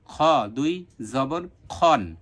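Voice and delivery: slow খ দুই জবর খন, rounded vowel; measured drill of heavy খ; correct kha. Shown as a demonstration. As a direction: say খন with an o vowel, not khan. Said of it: "খান হবে না".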